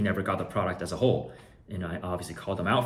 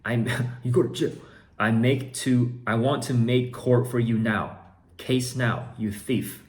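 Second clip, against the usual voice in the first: louder mock threatening buyer; reading buyer's threat; 3 semitones higher, 5 dB louder than usual. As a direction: play the buyer threatening jail. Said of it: "he says".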